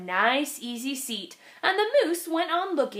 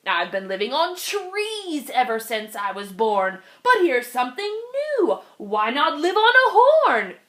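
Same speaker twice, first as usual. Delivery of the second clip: chirping bird; 2 semitones higher, 3 dB louder than usual. Acted. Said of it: "and he chirped".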